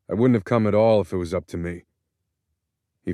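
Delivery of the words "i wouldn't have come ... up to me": angry. Acted. Son rebuffs father at prison.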